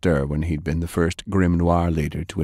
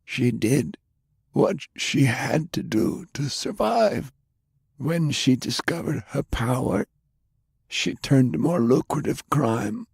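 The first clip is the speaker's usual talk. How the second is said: put-on lightly raised, indignant old gentleman; a pitch-raised, prim older man, gently scolding; Browning's voice; 7 semitones higher than usual.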